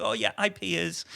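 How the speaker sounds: casually blurted radio answer; casual radio reply. Retold or imitated. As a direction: toss it off like a relaxed pilot. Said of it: "they just blat it out".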